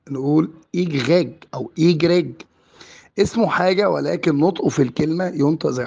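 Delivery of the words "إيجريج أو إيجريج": إيجريج with throaty French r, then إيجريج with tapped r; two pronunciations. Shown as a demonstration. Teacher offering both variants, إيجريج with two kinds of r. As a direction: say إيجريج both ways, "igheg" or "igreg". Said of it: "ممكن في ناس بتنطق".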